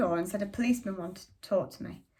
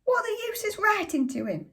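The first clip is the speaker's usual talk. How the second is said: much higher, much louder scornful shout; scornful father; 13 semitones higher, 7 dB louder than usual. A narrator's reading. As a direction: blast her words back with contempt. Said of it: "And Father shouted".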